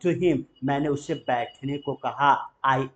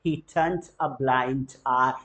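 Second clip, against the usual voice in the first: slow model phrase; much slower than usual. Shown as a demonstration. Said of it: "फिर से repeat कर रहा हूँ".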